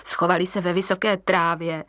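plain reading voice

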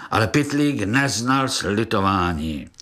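ordinary delivery

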